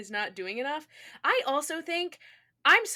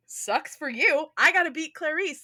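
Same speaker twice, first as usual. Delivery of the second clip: dismissive jock; 4 semitones higher, 4 dB louder than usual. Retold or imitated. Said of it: "he'd be like".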